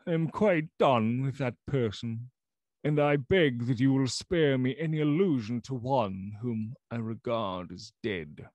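loud, shaking rejection of a friend; loud unsteady voice. Acted. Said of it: "in a loud, unsteady voice".

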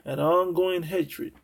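ongoing drawn out slowly; slow emphasis. Shown as a demonstration. Preacher explaining perpetual to his listeners, slow and emphatic. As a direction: spell out the meaning slowly. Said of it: "That's perpetual means".

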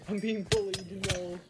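high, loud laughing complaint; giggling while being swarmed; laughing protest. Real, not acted. Laughing while mobs attack.

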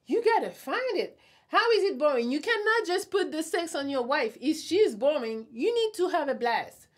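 high, emphatic scolding. Real, not acted. Lecturing husbands about boring sex.

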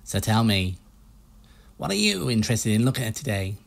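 lightly put-on low American used-ship salesman accent. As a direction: pitch the boats like a pushy American car salesman. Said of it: "stereotypical US low male salesman accent".

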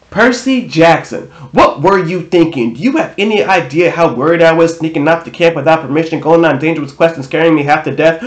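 a worried mom's rant, no pause for air; all in one breath. Acted. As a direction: rattle it off in a single breath, scolding. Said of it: "It was one breath".

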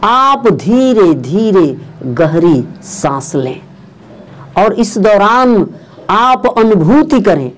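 measured meditation guide with long pauses; unhurried instruction, drawing out key words; guided meditation. Real, not acted. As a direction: lead listeners calmly through breathing, phrase by phrase.

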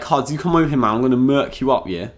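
lightly put-on London rude boy accent; a hint of London street slang swagger. Showing English slang to viewers, mock London rude boy. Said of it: "the London rude boy slang".

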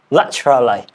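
British-style "laterally", middle syllable squeezed; British accent. Shown as a demonstration. Learner comparing the two accents, British accent attempt. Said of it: "in British, we sound or we pronounce".

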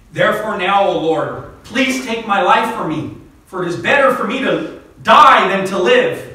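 a hint of hammed-up despair; lightly voiced despairing Jonah. Jonah begging God to take his life, mock lament. Jonah's death wish read dramatically.

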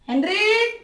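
loud angry call; shouting. Acted. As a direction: yell the name. Collector calls out again.

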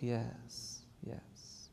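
faint, voiceless yes yes; a terrified man barely getting it out; frightened whisper. Retold or imitated. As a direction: driver with head on the wheel whispers in fear. Scared driver, head on wheel.

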